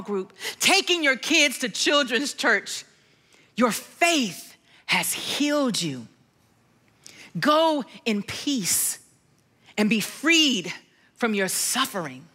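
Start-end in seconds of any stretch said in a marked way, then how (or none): 3.6-12.3 Jesus speaking peace to the healed woman; gentle blessing. Retold or imitated. Quoting Jesus' blessing, slower.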